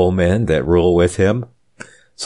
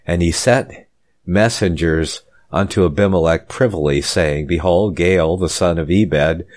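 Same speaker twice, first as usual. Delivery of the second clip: measured reading with pauses between phrases; formal, deliberate Bible reading; scripture reading. Real, not acted. Preacher reading Abimelech's story to listeners, formal scripture reading.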